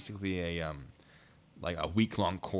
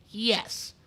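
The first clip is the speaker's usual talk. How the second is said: high, emphatic mock-insistence; insistent yes; 14 semitones higher, 5 dB louder than usual. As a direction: imitate an insistent homeowner, pitched up and louder. Acting out homeowner's insistent answer.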